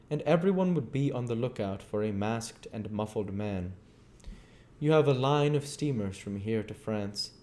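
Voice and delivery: a bitter, driven scientist telling his tale; lightly voiced, brooding fugitive; a hint of restless menace; Invisible Man. Invisible Man explains plan.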